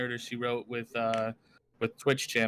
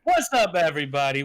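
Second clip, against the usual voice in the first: big high booming host greeting, much louder; commanding voice; 4 semitones higher, 6 dB louder than usual. Shown as a demonstration. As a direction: boom it out like a streamer opening the show. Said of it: "Do that again, do that again".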